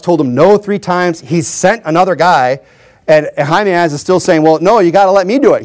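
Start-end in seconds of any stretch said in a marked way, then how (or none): 4.4-5.6 lightly acted insistence; mock insisting. Runner imitated pleading with his commander, mildly insisting. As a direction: press the point, imitating a persistent volunteer. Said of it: "He's insisting".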